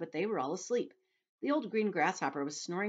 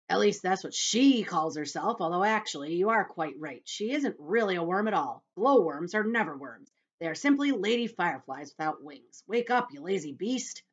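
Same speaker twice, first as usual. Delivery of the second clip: louder, know-it-all centipede explaining; 6 dB louder than usual. Acted. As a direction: lecture then snap at the sleeper. Centipede explaining, then scolding.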